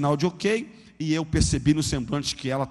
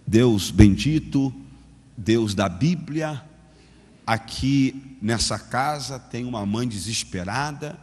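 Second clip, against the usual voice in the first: slow, low hesitant praying; clumsy first prayer; 6 semitones lower, slower than usual. Retold or imitated. New believer's awkward prayer for the mother, slow and low. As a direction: pray haltingly, unsure of the words. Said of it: "Fechei o olho e lá fui".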